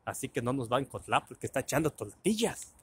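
"porque" and "tortillas" with L for every R; L in place of R. Retold or imitated. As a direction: imitate a pal saying "tortillas" as "toltillas". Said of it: "no puede pronunciar la R".

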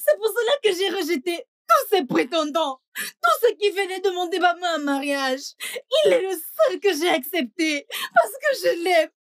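crying while pleading; tearful pleading. Acted. Wife pleads to her mother through tears. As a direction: sob out the love for him.

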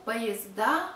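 поезда as "pa-yez-DA" with clear d; voiced d. Shown as a demonstration. Teacher showing the plural, поезда with clear d. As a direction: land on stressed voiced "DA" in поезда.

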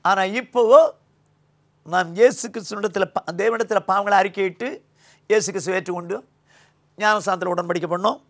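normal talking voice

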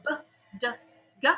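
"B, D, G" as short voiced sounds; voiced consonants. Shown as a demonstration. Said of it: "difference between vocalized consonants".

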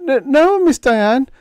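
high, stammering, caught out; flustered stammer. A narrator's reading. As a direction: gobble out a nervous denial. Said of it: "gobbling like a block-bound turkey".

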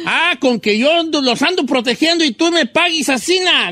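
playfully aggrieved scolding; mock indignation. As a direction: act betrayed by the ones you protect. Acts betrayed protector scolding animals.

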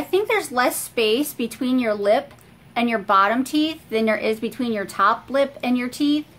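talking with hand at mouth; fingers on lips. Real, not acted. Seen 5: Fingers touch lips throughout; from 7.4 she pulls lower lip down.

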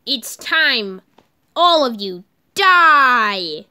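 slow loud villain threat; menacing yell. Acted. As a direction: drag out the threat.

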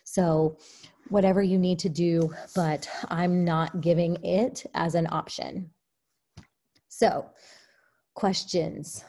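breathless, winded talk; out of breath. Real, not acted. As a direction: speak short of breath. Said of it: "I'm out of breath".

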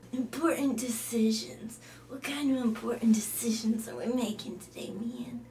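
whispered, hushed questions; a hushed alter ego. Acted. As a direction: breathe the words, barely voiced. A quiet character whispers.

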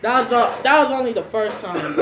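laughing while protesting; giggly defence; laughing it off to his cousin. Real, not acted.

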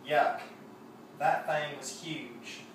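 slow Southern twang on yuck and that thing was huge; Southern drawl. Retold or imitated. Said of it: "I have to say it with the accent".

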